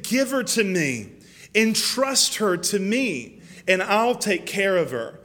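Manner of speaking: lightly acted divine appeal; earnest entreaty. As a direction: urge trust with measured insistence. Voices God asking for the child.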